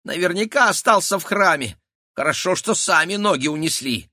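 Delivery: high, nervous squeaky chatter; a rat fretting. A narrator's reading. Rat man fretting about the lost pistol, high and squeaky. Felix voice.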